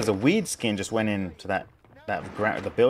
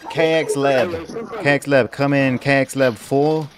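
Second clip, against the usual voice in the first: loud, slow radio call; crackly military radio; 5 dB louder than usual. Pretend. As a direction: call out like a soldier on comms. Calling a teammate over radio.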